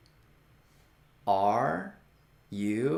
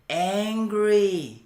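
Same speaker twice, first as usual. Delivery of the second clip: louder, higher, a touch of mock anger; mock angry word; 4 semitones higher, 4 dB louder than usual. Shown as a demonstration. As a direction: show the class angry, lightly acted. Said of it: "生气".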